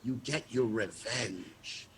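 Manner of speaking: low, soft and slow, full of menace; ominous low quote. Retold or imitated. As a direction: lean in and promise revenge slowly. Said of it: "He said".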